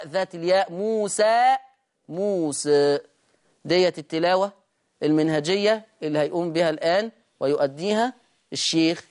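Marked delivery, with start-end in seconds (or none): 0.7-3.0 موسى بالفتح ثم بالتقليل; اقرأ موسى فتحا ثم تقليلا; موسى بالوجهين. Shown as a demonstration. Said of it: "والمقلل بخلف عنه كلمة موسى". (موسى بوجهي الخلف)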